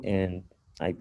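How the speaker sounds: ordinary delivery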